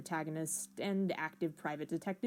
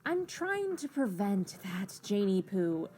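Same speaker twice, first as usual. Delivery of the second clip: Jaspros voice; 2 semitones higher than usual. Acted. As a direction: coax her like a meddling sprite. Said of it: "you decide to be Jaspro's Sprite two".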